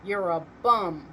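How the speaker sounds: loud angry yell. A narrator's reading. Rump yelling at Santa, loud. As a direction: yell it at him. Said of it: "Rump yelled".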